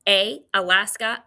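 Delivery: each sound loud and clear for repeating; drill sound demo. Shown as a demonstration. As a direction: model the vowel for the class to echo. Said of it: "Repeat after me".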